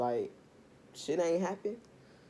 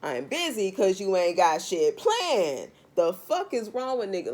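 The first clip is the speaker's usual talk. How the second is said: heated retort; 2 semitones higher, 6 dB louder than usual. Real, not acted.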